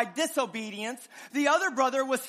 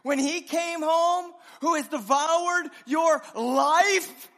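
raised, slow accusing voice; indignant older brother; 4 semitones higher, 4 dB louder than usual. Acted. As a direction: jab each word at the father. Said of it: "He says".

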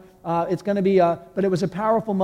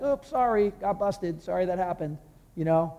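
light, offhand mock apology; a shrugging, half-hearted sorry; flippant sorry; 3 dB quieter than usual. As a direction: toss the sorry off like it's nothing. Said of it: "Worldly sorrow is like".

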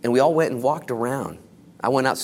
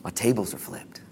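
whispering; 5 dB quieter than usual. Acted. Hushed opening line, unvoiced.

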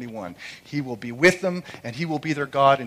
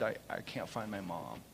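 mild muttered sob; 6 dB quieter than usual. Retold or imitated. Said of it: "crying, she muttered".

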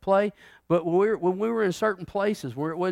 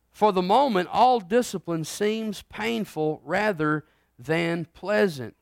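slow, measured scripture read; 3 semitones higher, slower than usual. Shown as a demonstration. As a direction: read the verse with weight. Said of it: "I'm gonna read".

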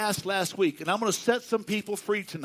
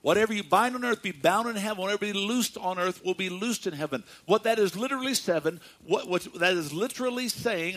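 talking fast; faster than usual. Real, not acted. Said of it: "I'm sorry I'm talking fast".

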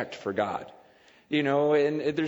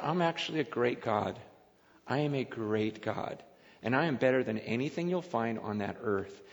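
calm confident God voice; 4 semitones lower, 6 dB quieter than usual. Pretend.

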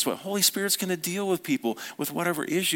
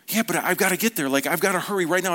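higher, hurried caterpillar protest; impatient protest; 3 semitones higher, faster than usual. Acted. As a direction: argue back with mild urgency. Impatient caterpillar answering back.

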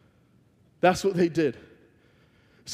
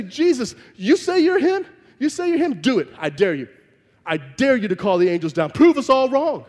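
higher, jeering dare; taunting; 4 semitones higher than usual. Retold or imitated. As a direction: taunt him to prove it. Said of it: "They straight up call him out".

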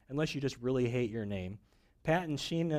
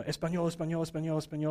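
mock Spanish newscaster; faster than usual. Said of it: "they're all just, you know".

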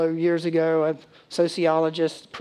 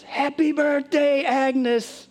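much higher, slow sung-out greeting; surprise cheer; 9 semitones higher, much slower than usual. Retold or imitated. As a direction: call it out like a surprise crowd. Everyone shouting surprise.

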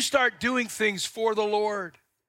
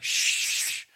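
whispered shush, then a dry aside; hushing wife; 3 dB quieter than usual. Retold or imitated. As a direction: hush him like an embarrassed wife.

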